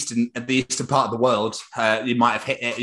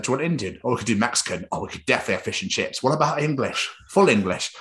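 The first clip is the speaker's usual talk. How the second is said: imitating the wife; 3 semitones higher than usual. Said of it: "she's like".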